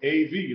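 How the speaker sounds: "Av" said as one syllable, A plus V; pronunciation demo. Shown as a demonstration. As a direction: say "Av" as a single sound, no yod. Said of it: "You pronounce it A".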